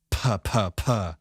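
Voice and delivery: gentler puh sounds further from the mic; light puffs of P, pulled back. Shown as a demonstration. Showing distant mic pops to viewers, light puh sounds. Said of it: "a little further".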